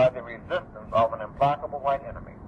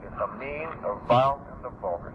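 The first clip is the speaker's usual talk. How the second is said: "mean", "vile", "vulgar" each set apart, vile the loudest; emphatic listing; 2 semitones lower, 3 dB quieter than usual. Real, not acted. Speaker defining proletariat for listeners, emphatic listing of mean, vile, vulgar. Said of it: "And I emphasize that".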